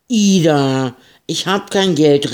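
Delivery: high, loud protest; crying out. Acted. Marie protesting to Ida she has no money. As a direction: cry it out in alarm. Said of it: "rief Marie".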